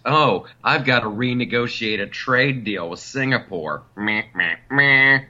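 mocking blah blah. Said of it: "let the dorks figure out".

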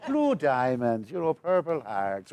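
slow, laughing mock Irish leprechaun; hammed-up cereal-ad Irish brogue. Mocking lazy actors, does a laughing cereal-ad Irish. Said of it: "take it from the Lucky Charms commercial".

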